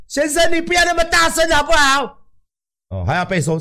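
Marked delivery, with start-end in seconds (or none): 0.1-2.2 much higher, scolding staff voice; high nagging voice telling the patient to keep it down; annoyed hospital staff. Retold or imitated. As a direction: play the nurse shushing a noisy patient. Staff member telling him to quiet down.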